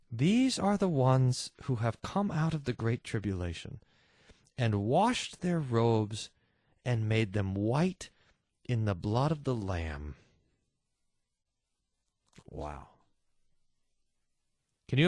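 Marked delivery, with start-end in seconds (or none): 0.1-10.2 angel answers solemnly. Acted. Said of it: "And the angel says". 12.5-12.9 hushed wow. Real, not acted. Quiet awe.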